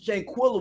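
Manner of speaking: "Shanquella" with a short ih, kwill-uh; I in the name. Shown as a demonstration. Co-host clarifying the sister's name, "Shanquella" said as shan-kwill-uh. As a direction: say "Shanquella" to rhyme with vanilla. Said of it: "with the I".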